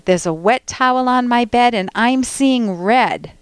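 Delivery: exasperated mock anger, punched words; real angry mom. Host quoting a mom from a parenting book, angry. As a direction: vent hotly without blaming. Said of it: "She just gets real angry".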